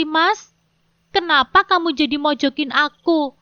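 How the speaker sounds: mildly dramatic, wounded-sounding questions; dramatic wife. Acted. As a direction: play up the hurt a little. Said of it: "Tanyaku tetap berdrama". (istri yang berdrama, sedikit tersinggung)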